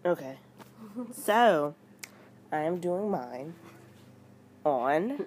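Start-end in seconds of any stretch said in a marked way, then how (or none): 4.7-5.2 tongue click. Real, not acted. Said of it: "The tongue click, though".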